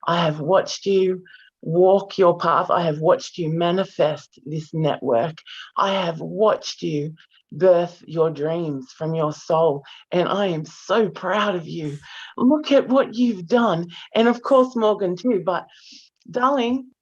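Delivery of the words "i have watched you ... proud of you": tearful pride. Real, not acted. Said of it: "I'm already crying".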